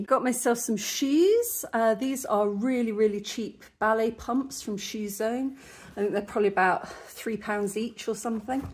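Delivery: short of breath, puffing. Real, not acted. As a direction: talk while a little winded. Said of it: "I'm actually puffing a little bit".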